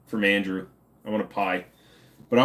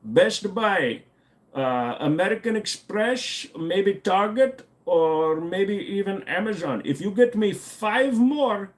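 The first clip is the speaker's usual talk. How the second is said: higher, pushy scam-caller voice; mock scammer; 5 semitones higher than usual. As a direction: pressure them into buying gift cards. Mock gift-card scammer.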